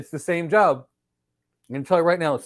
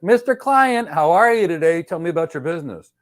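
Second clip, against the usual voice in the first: higher, louder friendly salesman opener; architect greeting client; 4 semitones higher, 6 dB louder than usual. Pretend. The architect greeting a new client, keen and friendly. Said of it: "Now that's the architect".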